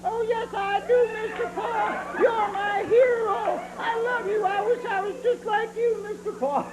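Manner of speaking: high whiny doll voice, near crying; mock sobbing puppet voice; Mister Bill doll voice. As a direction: squeak out pitiful hero worship. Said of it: "do you know what you're saying".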